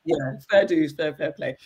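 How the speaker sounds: tearful. Real, not acted. Moved after praise of her mothering.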